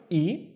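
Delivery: "E" with glottal onset; hamza with kasra. Shown as a demonstration. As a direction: catch the "E" sharply. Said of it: "starting with a hamza and a kasra in Arabic".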